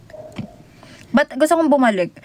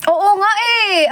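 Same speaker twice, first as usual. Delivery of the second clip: mock whimper; 5 semitones higher than usual. Joking about being orphaned.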